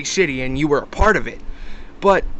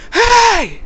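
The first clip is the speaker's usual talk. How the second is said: high, drawn-out mock yell; imitated scream; 7 dB louder than usual. Man screaming at us from behind, imitated high yell. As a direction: stretch one loud, high holler, short of a full scream. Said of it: "he screamed at the top of his lungs".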